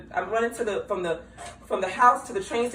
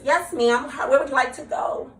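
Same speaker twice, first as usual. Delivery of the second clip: higher polite hostess voice; servile service voice; 4 semitones higher than usual. Shown as a demonstration. Showing how she talks to customers at work, sweet and polite. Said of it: "When I talk like this".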